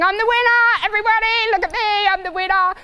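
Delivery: mock stallion bragging after coming last; cocky stallion. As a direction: crow like a stallion who thinks he won. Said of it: "screaming and piaffing and passaging".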